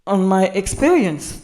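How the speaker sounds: experience said the English way; "experience" with English vowels, slowly; English pronunciation. Shown as a demonstration. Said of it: "on va dire".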